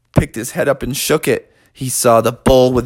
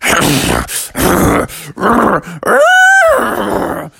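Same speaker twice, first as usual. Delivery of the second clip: snorting bull noise; 6 semitones higher, 3 dB louder than usual. Acted. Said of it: "kicking and screaming and snorting".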